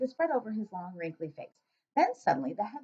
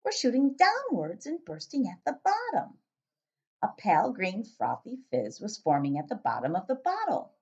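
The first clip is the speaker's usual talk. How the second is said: story narration. A narrator's reading. Narrator reading to a listener, storybook voice.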